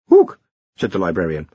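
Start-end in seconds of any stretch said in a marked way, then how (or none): 0.1-0.4 loud, high orangutan ook; ape call. A narrator's reading. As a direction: hoot like an orangutan. Orangutan librarian.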